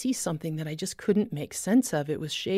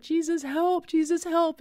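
high, urgent cry for help; frantic prayer in a crisis; desperate plea; 10 semitones higher than usual. Retold or imitated. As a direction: plead high in panic. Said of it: "And it was like".

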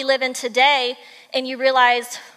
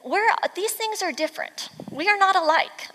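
higher-pitched insistence on "not alike"; emphasizing; 5 semitones higher than usual. Acted. Storyteller sums up the animals' replies, emphasizing the difference. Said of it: "to emphasizing".

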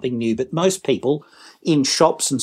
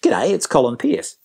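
friendly phone greeting; 2 semitones higher than usual. Shown as a demonstration. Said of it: "It's gotta be".

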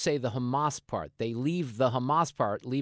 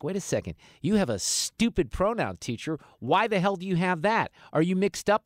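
mock confused kids; 4 semitones higher, 3 dB louder than usual. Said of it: "But then they're like".

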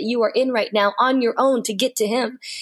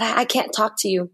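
broken, halting whisper. Retold or imitated. Maddie telling God she can't talk, whispered. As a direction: barely get the words out.

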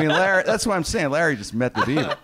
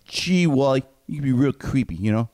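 put-on boyish sitcom kid voice; Beaver voice; 5 dB louder than usual. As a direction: play the wide-eyed little brother. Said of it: "can I do my Beaver impression".

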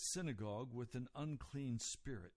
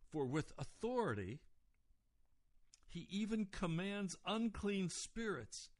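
raised pitch, building astonishment; amazed; 5 semitones higher than usual. Retold or imitated. Onlookers marvel at his authority over spirits, amazed. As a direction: marvel at it, imitating the crowd. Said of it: "utterly amazed".

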